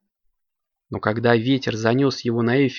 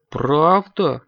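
touched; 5 semitones higher, 3 dB louder than usual. A narrator's reading. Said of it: "растроганно спросил Брык".

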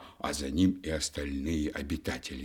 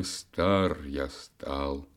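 sighing; 3 semitones lower, much slower than usual. Acted. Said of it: "вздохнул век".

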